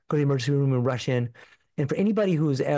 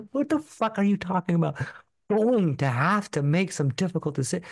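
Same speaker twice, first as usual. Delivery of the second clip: stunned disbelief; 5 semitones higher than usual. Retold or imitated. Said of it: "I'm thinking".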